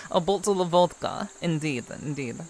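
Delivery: put-on Russian accent, formally agreeing. Streamer joking along with chat, Russian accent. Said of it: "we'll say it is Russian accent".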